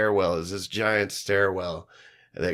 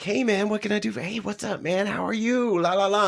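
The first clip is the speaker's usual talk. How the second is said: much higher, breezy stream of greetings; imitating the famous singer; 11 semitones higher than usual. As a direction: rattle off the fan greetings up high. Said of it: "He's like".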